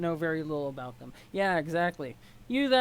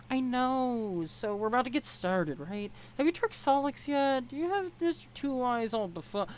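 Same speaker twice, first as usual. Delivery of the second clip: put-on a lighter, higher girl's voice with no Southern twang; higher character voice, no accent; 6 semitones higher than usual. Troll girl teasing Ebony about tricking Solix, higher, no accent. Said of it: "no, this is Southern accent".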